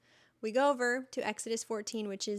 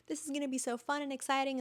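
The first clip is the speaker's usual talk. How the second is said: quick and higher, a touch of mock excitement; eager imagined self; 5 semitones higher, faster than usual. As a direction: rush it out like a hopeful newcomer.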